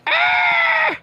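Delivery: very high mock scream; high falsetto mock shriek; mock wife shriek. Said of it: "My darling's most probably sitting there going".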